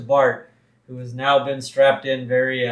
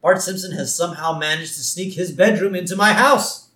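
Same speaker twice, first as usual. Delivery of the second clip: indignant accusation; 5 semitones higher, 4 dB louder than usual. Acted. Acting the reverend's indignant false accusation.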